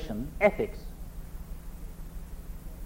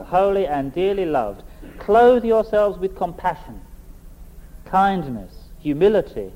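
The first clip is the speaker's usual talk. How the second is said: measured, solemn Bible reading with long pauses; scripture reading. Acted. Preacher reading Colossians to the congregation, solemn reading voice. Reads scripture passage aloud.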